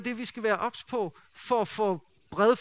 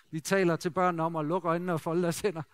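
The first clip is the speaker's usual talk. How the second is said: usual speaking voice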